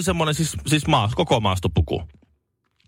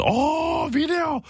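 much higher, thrilled mock tourist voice; delighted Japanese tourist; much slower than usual. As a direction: squeal it like an overjoyed tourist. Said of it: "No se".

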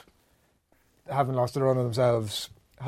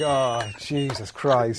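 slow, drawn-out groan of dismay; long, weary mock exasperation; retold dismay; much slower than usual. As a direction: stretch it out like a mortified parent. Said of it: "I was like".

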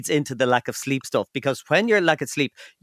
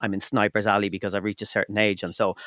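panicked inner voice; 5 semitones lower than usual. Retold or imitated.

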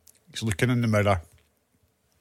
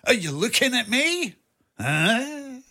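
high, slow hammed-up De Niro challenge; squeaky mock tough guy at the mirror; Robert De Niro impression; 10 semitones higher, much slower than usual. The speaker hams up De Niro for producer John. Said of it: "my Robert De Niro kind of Taxi Driver impersonation".

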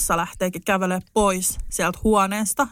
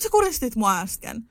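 indignant accusation. Retold or imitated. Telling the sleepy man he choked her, mock indignant. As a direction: accuse him, half laughing at the absurdity. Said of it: "Mä oon silleen, että".

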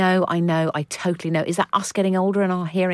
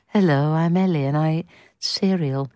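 imitating Ellie. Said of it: "You've put me into a sort of trance".

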